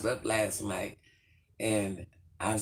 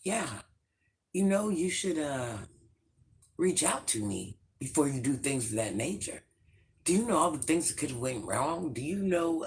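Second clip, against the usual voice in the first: scolding landlord; 4 semitones higher than usual. Retold or imitated. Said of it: "He's like".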